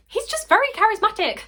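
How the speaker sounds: very high, loud, sheepish justification; mock excuse. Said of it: "I'm just like".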